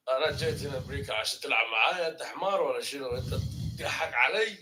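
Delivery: quick-fire Saudi dialect; Saudi Arabic. Shown as a demonstration. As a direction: rattle off challenging questions in Saudi Arabic. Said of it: "the, uh, Saudi Arabic".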